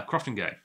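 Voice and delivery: Crofton Gay, ending in an ay sound; researched pronunciation. Shown as a demonstration. Host restating the name after his research, ay pronunciation. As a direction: say "Crofton Gay" with Gay rhyming with day. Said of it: "most likely supposed to be pronounced".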